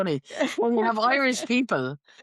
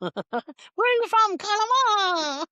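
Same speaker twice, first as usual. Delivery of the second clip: high, drawn-out stage Connemara voice; mock Connemara accent; 13 semitones higher, much slower than usual. Asking where are you from, mock Connemara accent. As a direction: sing out a hammed-up Connemara accent. Mock Irish question and answer.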